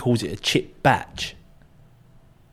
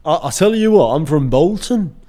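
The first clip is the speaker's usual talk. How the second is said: put-on Bolton accent; 4 semitones higher, 4 dB louder than usual. Guessing how Bolton people talk, mock Bolton accent. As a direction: have a go at an imagined Bolton accent. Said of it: "I imagine it's like this a little bit".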